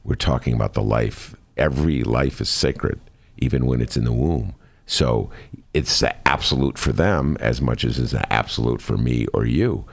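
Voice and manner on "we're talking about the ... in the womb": devil's advocate voice. Pretend. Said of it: "The other side would say".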